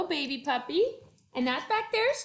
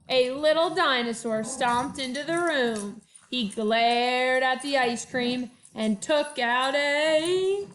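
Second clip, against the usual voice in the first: lively picture-book read-aloud; reading to children; 3 dB louder, slower than usual. A narrator's reading. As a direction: read it to first graders with bounce. Teacher reads picture book aloud.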